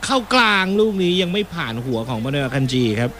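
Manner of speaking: brisk football commentary call; live play-by-play. Acted. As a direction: follow the action as it happens.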